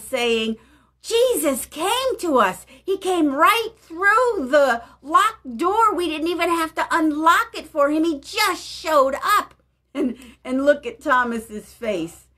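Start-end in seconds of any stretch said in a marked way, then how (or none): 1.0-9.5 higher, eager voice of the excited disciples. Retold or imitated. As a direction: bubble over with the news. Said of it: "look at the excited faces".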